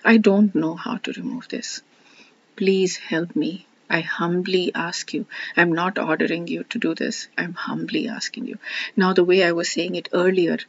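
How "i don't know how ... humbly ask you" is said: humble prayer. Shown as a demonstration. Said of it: "Humility is saying".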